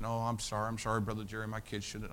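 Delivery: soft, hushed retold apology; embarrassed apology. Embarrassed mother apologizing to the bus worker, softly embarrassed. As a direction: imitate an embarrassed mother, keep it quiet. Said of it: "And she was embarrassed".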